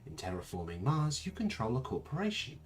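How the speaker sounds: stilted computer voice with mechanical pitch jumps; creepy computer voice. Acted. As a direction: read it out like an eerie, robotic tutorial narrator. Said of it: "should have some creepy computer voice".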